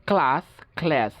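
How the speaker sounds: ক্লাস first as KLAHS, then as KLESS; ক্লাস twice, open AH then cat vowel; British then American. Shown as a demonstration. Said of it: "আমেরিকানরা বলে এ". (ক্লাস প্রথমে আ, পরে অ্যা উচ্চারণে)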